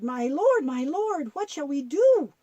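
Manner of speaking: hammed-up frightened servant; terrified plea. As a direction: cry out to your master in mild fright. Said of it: "The servant was terrified".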